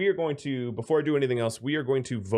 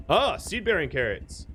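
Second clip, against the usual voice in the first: lightly faked German-Austrian accent, higher pitch; terrible German-Austrian accent; 5 semitones higher than usual. Streamer spotting crop in game, terrible German-Austrian accent. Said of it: "in, like, a terrible German, Austrian accent".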